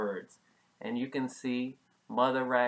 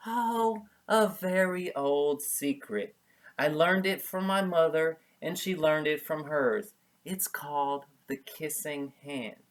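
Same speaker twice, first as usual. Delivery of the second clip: gentle mother; 3 semitones higher, 5 dB louder than usual. Acted.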